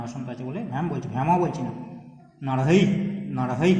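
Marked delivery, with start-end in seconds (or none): 2.5-3.7 নরহৈ with a strong h pulled at the end; loud demo of নরহৈ with aspirated ending; drawn-out visarga. Shown as a demonstration. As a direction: push the হ in নরহৈ, loudly. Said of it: "যে হকে টানছি".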